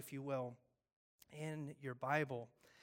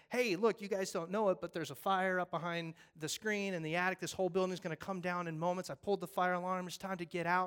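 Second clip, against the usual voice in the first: loud, urgent warning, pitched up; urgent firefighter; 2 semitones higher, 4 dB louder than usual. Acted. Firefighter warning the congregation of a fire, urgent. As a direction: burst in and warn everyone. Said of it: "if a firefighter burst in here and said".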